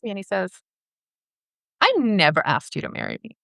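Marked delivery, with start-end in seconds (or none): 1.8-3.4 retold denial. Retold denial, first take.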